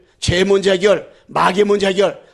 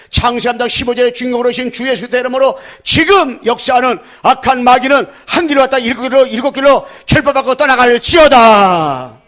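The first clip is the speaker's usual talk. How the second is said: exorcism prayer; 4 semitones higher, 6 dB louder than usual. Acted. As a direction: preach at full force, binding the devil.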